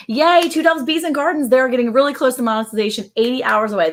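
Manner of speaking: high, bright cheer; high excited cheer; excited kids. Retold or imitated. Kids' excited text read aloud.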